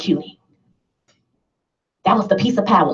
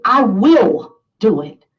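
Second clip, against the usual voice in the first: slow and louder, each word set down; firm declaration; 4 dB louder, slower than usual. Shown as a demonstration. Speaker modelling the committed answer to the group, firmly. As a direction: declare it with full resolve. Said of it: "You're not gonna do it".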